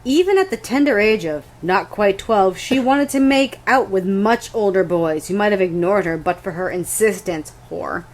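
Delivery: deliberate, measured passage reading; lightly dramatised book excerpt; dramatic reading. Acted. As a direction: read it out with a touch of drama. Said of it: "If I may dramatically read".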